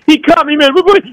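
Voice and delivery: high-pitched imitated screaming; mock drunken scream. Cut man at the bar accusing his attacker, mock screaming. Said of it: "he's screaming".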